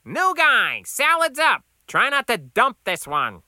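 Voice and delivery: high, loud kitchen call. A narrator's reading. Cook calls new guy for salad, loud call. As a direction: call the order up across a diner. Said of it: "he called out".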